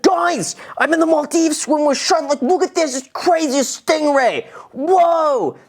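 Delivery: high-pitched, thrilled gushing; hammed-up giddy squeal to friends; over-the-top excitement. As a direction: marvel at it like an amazed tourist. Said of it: "that's what I would be like".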